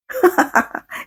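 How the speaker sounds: quick, soft chuckle; short laugh. Real, not acted. Preacher amused while urging the congregation, soft laugh. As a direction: let out a soft little laugh.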